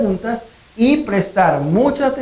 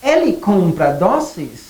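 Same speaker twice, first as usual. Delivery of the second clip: slow "Ele compra doces?" with a question melody; question tune, slow; slower than usual. Shown as a demonstration. Teacher modelling a simple question slowly. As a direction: spell out the question slowly for learners. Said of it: "Entonces la pregunta quedaría".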